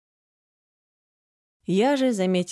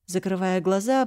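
ordinary delivery, nothing marked

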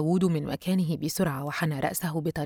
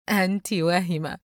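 understated scoff, pitch near usual; mocking. A narrator's reading. Yusra brushes off her friend's suspicion, lightly mocking. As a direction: dismiss her with light mockery. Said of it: "يسرى ساخرة منها".

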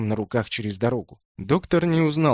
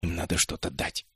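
much softer, lower aside; hushed whisper; 5 semitones lower, 7 dB quieter than usual. A narrator's reading. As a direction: murmur to his sister so the porters miss it. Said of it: "шёпотом напоминает сестре Джал".

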